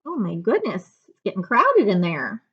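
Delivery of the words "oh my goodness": ordinary delivery, nothing marked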